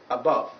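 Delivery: "above" opening on a weak, short uh; schwa in "above". Shown as a demonstration. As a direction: start "above" with an unstressed schwa. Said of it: "This one is sometimes called the schwa".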